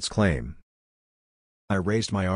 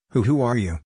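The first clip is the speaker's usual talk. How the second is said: a frightened, stammering question, pitched higher; fragile stutter; 4 semitones higher than usual. A narrator's reading. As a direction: stumble over the first word in fear. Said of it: "In a fragile stutter I asked".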